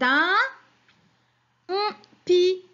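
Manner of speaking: UN, pause, hummed N, then PI; missing syllable masked. Shown as a demonstration. Teacher quizzing children on a picture word, N hummed as placeholder. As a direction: hum N where the syllable is missing, finish firmly on PI. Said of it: "il manque la syllabe".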